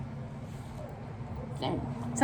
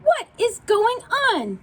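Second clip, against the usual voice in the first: confused; 12 semitones higher than usual. Acted. Confused monkey asks aloud.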